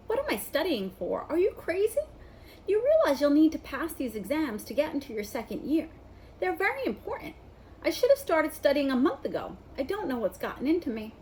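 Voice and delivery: put-on high, indignant know-it-all girl; a touch of a flustered bossy student; exasperated schoolgirl. Hermione's exasperated outburst.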